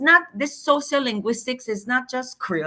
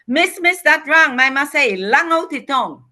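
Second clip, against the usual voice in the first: put-on high, loud eager shout of a kid; excited child; 7 semitones higher, 10 dB louder than usual. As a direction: call out eagerly like a keen pupil. Shy boy excitedly corrects teacher.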